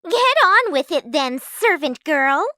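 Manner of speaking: high, loud scornful order; haughty taunt; bossy stepsister. A narrator's reading. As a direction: order the servant about. Stepsister bossing Cinderella.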